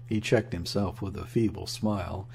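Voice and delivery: ordinary delivery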